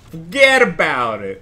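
loud, drawn-out Brooklyn accent. Shown as a demonstration. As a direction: put on your best Brooklyn accent. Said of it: "That's my best Brooklyn accent".

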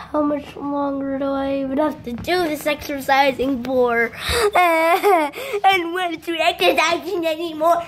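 breathless laughing complaint; laughing while exhausted. Real, not acted. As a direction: laugh through the strain. Tired mid-exercise, laughing.

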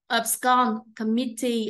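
"Abscond, committee" stressed on SCOND and MIT; second-syllable stress. Shown as a demonstration. Teacher giving exam answers, "Abscond, committee" each stressed on the second syllable. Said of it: "âm hai".

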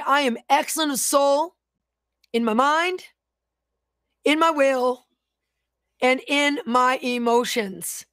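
measured phrases with pauses to echo; repeat-after-me declaration. Real, not acted. Preacher leading viewers to repeat after them, measured declaration. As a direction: lead them through it piece by piece.

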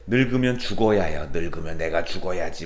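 lightly voiced old woman, low and level; a hint of a resigned granny; grandmother's grumble. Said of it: "할머니들은 왜".

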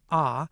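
"ah" as a pure open vowel; isolated "ah" sound; open vowel demo. Shown as a demonstration. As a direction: say a steady "ah" with no glide. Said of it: "hear the first part of the".

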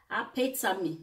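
Apetame in Italian vowels, ah-peh-tah-mee; Italian-style Apetame, ah-peh-tah-mee; Italian pronunciation. Shown as a demonstration. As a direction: say Apetame as an Italian would, falling at the end. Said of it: "I'm using the Italian pronunciation".

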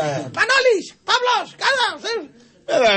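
high mock yell of a name across the church; φωνάζει όνομα. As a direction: call the name out, hammed-up and high. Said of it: "φώναζε μια". (κοροϊδευτική φωνή από ψηλά)

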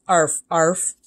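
lightly voiced puppy barks; dog barks. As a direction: bark like a little dog. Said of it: "barked Wiggles".

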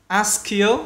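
"Ask you" run together as one word; linked words. Shown as a demonstration. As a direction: link the k of "Ask" straight into "you". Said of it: "Đọc nối vào nhau luôn".

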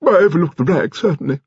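put-on high, lofty old lady; grand high-pitched admission; rather grand. A narrator's reading. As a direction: concede loftily in a high grande-dame voice. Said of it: "said Lady Lacklander rather grandly".

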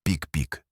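м'яко імітований писк апаратів, тихо; коротке «пік-пік», наче медичний монітор; imitated monitor beep. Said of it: "Повернувся сигнал апаратів". (тиха імітація писку апарата)

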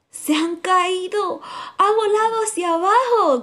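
high, loud squawking bird voice; rook cawing. A narrator's reading. Rook croaks about the fall, high squawk. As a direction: caw it out like a rook. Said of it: "grazna el grajo".

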